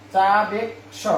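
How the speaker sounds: চাবেক স split into "cha-bek, sho"; চাবেক স broken syllable by syllable; k before sh. Shown as a demonstration. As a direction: sound the k of চাবেক স first, then the sh. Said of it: "প্রথমে ক উচ্চারণ করে তারপরে".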